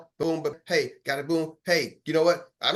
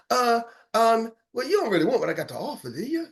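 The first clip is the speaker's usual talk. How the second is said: hesitant caller; 4 semitones higher than usual. Acted. Caller stammers his reply.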